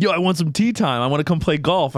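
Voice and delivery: a hint of a distinctive celebrity caller; Tracy Morgan. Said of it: "Tracy Morgan has a very distinct voice".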